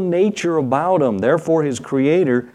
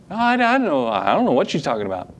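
put-on denying kid. Preacher voicing the guilty child denying to the parent, mock innocent. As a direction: play dumb like a caught toddler.

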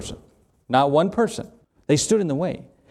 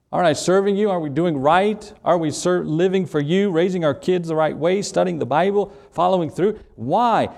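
higher pleading protest; complaining believer; 5 semitones higher than usual. Retold or imitated. Believer protesting to God over hardship, raised plea. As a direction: plead up high, aggrieved.

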